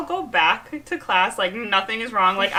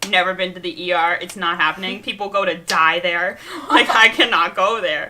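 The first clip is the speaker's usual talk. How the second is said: panicked protest; 5 dB louder than usual. Retold or imitated. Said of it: "I started screaming".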